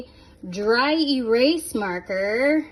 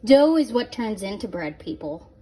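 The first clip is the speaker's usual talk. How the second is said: sarcastic; 2 semitones lower than usual. Real, not acted. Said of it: "And yes, I'm being sarcastic".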